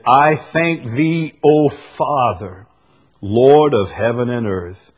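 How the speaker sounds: slow, measured verse reading; scripture reading. Acted. Preacher reading Jesus's prayer to listeners, slow scripture reading. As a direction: proclaim the prayer slowly. Reads a Bible verse aloud.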